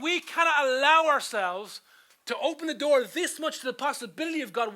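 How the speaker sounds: loud, high preacher's delivery; emphatic preaching. Acted. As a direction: drive it home to the congregation. Preaches at raised force.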